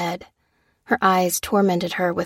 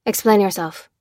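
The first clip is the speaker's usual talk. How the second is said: mild demand. Acted. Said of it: "demanded the major".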